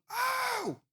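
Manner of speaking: high, stretched call across the street; mock yell from afar. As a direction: shout out to catch someone's attention. Worker yells from building. (grito esticado e agudo, chamando de longe)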